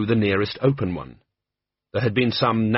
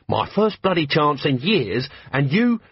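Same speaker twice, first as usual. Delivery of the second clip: angry scolding; 5 semitones higher, slower than usual. Acted. Betty scolding Colon.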